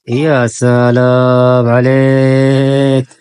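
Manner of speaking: very slow, stretched ya salam, a touch of teasing; drawn-out admiring wow. Real, not acted. Mother watching her daughter use powder, slow teasing admiration. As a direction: linger on every syllable in playful awe.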